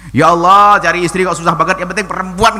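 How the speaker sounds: loud, exasperated plea to God, half acted; mock angry prayer. Preacher mimics a man praying in frustration, mock angry loud plea. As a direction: complain loudly to God about finding a wife. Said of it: "nggak boleh marah dengan Allah".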